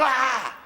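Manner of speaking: a short mock cry of fright; mock scream. Preacher retelling the disciples' mild scream. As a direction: toss off a mild scared shout. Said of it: "ellos gritaron".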